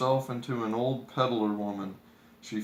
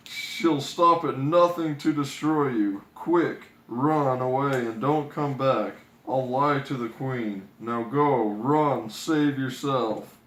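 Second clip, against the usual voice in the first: louder urgent huntsman voice; 4 dB louder than usual. Acted. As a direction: hurry her off, urgent and loud. Huntsman urges her to flee.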